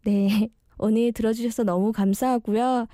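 speaking with braces; slightly slurred speech from braces. Real, not acted. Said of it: "제가 교정 중이라 발음이 너무 엉망진창인데".

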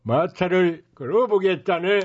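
brash street hawker pitch; snake oil seller. Acted. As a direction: sell it to the crowd. Street medicine show pitch.

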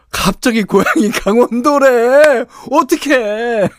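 high, loud flustered squeal at x0.7; a comic yelp of alarm; panicked surprise. Real, not acted. DJ panics over dialect slip.

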